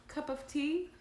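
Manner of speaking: high-pitched parrot question; parrot squawk. A narrator's reading. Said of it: "she squawked faintly".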